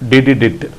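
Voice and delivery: Didi dit as three quick beeps, ending on dit. Shown as a demonstration. Morse teacher repeating the sound of S. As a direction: give Didi dit as one rhythmic group. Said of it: "Didi plus dit".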